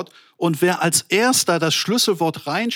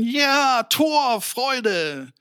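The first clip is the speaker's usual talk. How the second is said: high-pitched imitation of celebrating football fans; mock goal cheer; 6 semitones higher, much slower than usual. Preacher imitates men watching football score, mock goal cheer. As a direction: cry it out like men jumping up at a goal, without full volume. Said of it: "springen die Männer auf und schreien".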